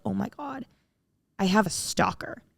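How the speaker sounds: hushed, dawning dread; retold scared. Recounting her realization about a stalker, hushed and scared. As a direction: drop the voice in mock alarm. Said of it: "I started getting scared".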